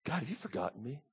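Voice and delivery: soft, small plea to God; acted hushed appeal; forlorn prayer. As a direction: ask it quietly, as if abandoned. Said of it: "It's almost as if he's saying".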